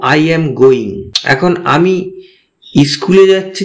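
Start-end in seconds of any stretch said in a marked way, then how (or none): 0.0-1.1 very slow, each word spaced out for learners; teacher says it slowly so students can copy; slow English model sentence. Shown as a demonstration. Teacher models the English slowly for beginners. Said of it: "তাহলে বলবো".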